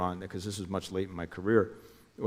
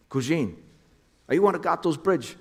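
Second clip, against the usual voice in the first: much higher, urgent voice for Jimmy; imitating Jimmy calling, pitched way up; Jimmy on the phone; 8 semitones higher, 3 dB louder than usual. Jimmy calls him on phone.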